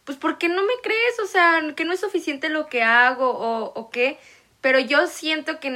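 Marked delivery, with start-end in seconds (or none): 0.0-4.2 a higher, wounded why-don't-you-believe-me; half-hearted hurt complaint, pitched up; hurt protest. Retold or imitated. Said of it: "nos agüitamos".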